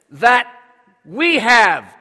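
confident prompt for the congregation to repeat; loud and confident. Shown as a demonstration. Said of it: "Say it loud".

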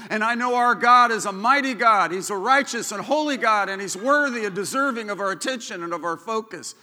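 loud rising preacher's proclamation; preaching at full force. Acted. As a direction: lift it like a pulpit climax. Preaching builds to a peak.

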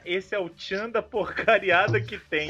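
laughing. Retold or imitated. Quoting friend's line while laughing.

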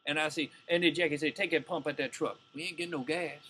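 put-on old Southern ballplayer voice; Buck O'Neil. Comic imitating a ballplayer reminiscing about a teammate, Southern old-timer voice. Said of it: "you can't portray Buck O'Neil talking like Buck O'Neil".

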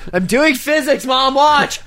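put-on high, eager child calling to mom; excited kid voice.

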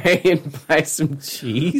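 slow redneck drawl, laughing; drawn-out mock redneck; mimicked redneck accent. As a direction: echo the redneck accent mockingly. Listener mimics the redneck line.

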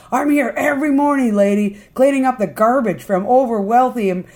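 acted-out angry rebuke; indignant scolding. Ricky scolds the lady angrily.

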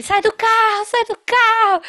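high mock shout at the driver; imitated angry yell. Examiner ordering her out of the car, mock shout. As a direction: bark it like the furious examiner. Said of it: "o cara começou a gritar comigo".

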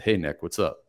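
low-energy greeting. Shown as a demonstration. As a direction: greet him with no energy, the tune falling. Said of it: "I would talk like this".

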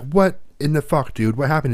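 high, slow, baffled what-the-fuck; exasperated demand. Retold or imitated. A mother confronting her late son, exasperated. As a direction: throw it at him like an accusation.

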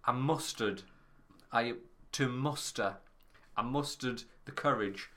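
slow, deliberate "mustered the courage"; correcting slowly. Real, not acted. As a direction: say "mustered" with care, fixing the slip. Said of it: "not mustered".

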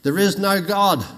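atheist yelling. Retold or imitated. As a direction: call it back defiantly. Atheist neighbour shouting back.

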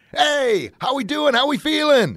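high, pumped-up greeting; exciting energetic voice. Shown as a demonstration. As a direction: fire up a room of kids. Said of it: "In an exciting, energetic voice".

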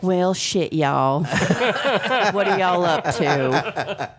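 man doing a woman's voice; Leslie Jordan impression. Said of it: "my impersonation of, uh, Lady G's voice".

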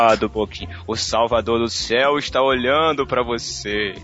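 sinister voice. Retold or imitated. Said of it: "Eu não tinha essa voz sinistra".

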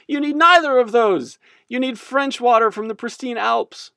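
high, loud mock-French proclamation; snotty French accent. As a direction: look down on the rivals in a French accent. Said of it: "their snotty French accent coming in".

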